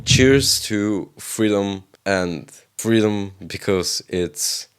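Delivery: slow, tipsy toast. Real, not acted. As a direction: slur it a little, tipsy. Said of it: "I'm already kind of wasted".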